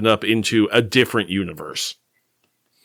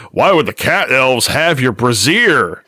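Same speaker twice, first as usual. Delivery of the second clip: slow, dopey brute voice; lightly voiced dumb brute; dopey cartoon bellow; 3 dB louder than usual. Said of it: "and the brute says".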